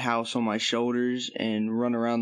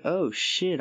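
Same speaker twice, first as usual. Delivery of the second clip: higher-pitched eager reaction; retold excitement; 7 semitones higher than usual. Teller reacting to the big cloud, impressed. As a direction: quote an impressed, eager outburst.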